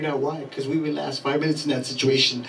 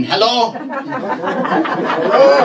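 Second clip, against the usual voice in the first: mock-mad hello; 10 semitones higher, 4 dB louder, much slower than usual. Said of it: "He gets all mad".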